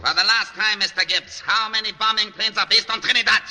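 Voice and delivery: furious shout over the noise. Acted. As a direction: yell it at the prisoner, last warning. Officer shouts over bombing.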